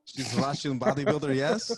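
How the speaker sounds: half-hearted Russian accent, lifting on the tag question; terrible Russian accent. Shown as a demonstration. Guest shows off his Russian accent on request, badly faked. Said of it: "It's a terrible Russian accent".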